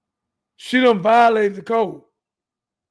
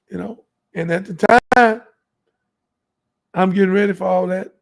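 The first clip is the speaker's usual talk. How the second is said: ordinary delivery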